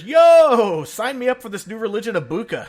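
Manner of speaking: loud, laughing cheer; whooping while cracking up; laughing shout. Real, not acted. Cheering the boss Richard on, laughing loudly.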